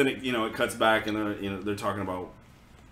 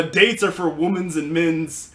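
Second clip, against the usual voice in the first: slow, higher, louder, lecturing; mock pompous explainer; 4 semitones higher, 4 dB louder, slower than usual. The floating head lecturing the kids about dates, mock pompous. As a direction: explain like a stuffy know-it-all. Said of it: "he explains".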